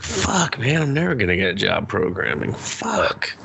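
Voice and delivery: lightly voiced despairing daughter; mock despair. Daughter's despair over bill.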